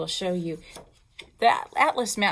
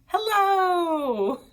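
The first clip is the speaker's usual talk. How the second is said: laughing; 10 semitones higher, 4 dB louder than usual. Real, not acted. Teacher laughs translating greeting.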